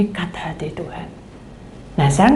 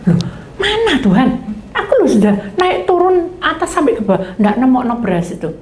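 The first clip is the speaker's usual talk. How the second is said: protesting complaint; 4 semitones higher than usual. Retold or imitated. Grumbling servant argues back with God, indignant. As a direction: plead your case, half laughing. Arguing with God over rice.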